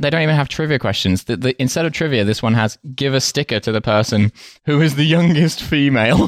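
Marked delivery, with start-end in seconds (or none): 2.9-6.3 higher, breaking into laughter at the end; rising pitch tipping into a laugh; incredulous reading. Real, not acted. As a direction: read it out in amused disbelief. Reads cracker, rising incredulous laughter.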